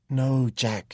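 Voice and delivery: a high, loud plea to stop him; pleading. A narrator's reading. Ellie begs Jack not to hit Tom, pleading loudly. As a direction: beg him to put his fist down. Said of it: "she pleaded".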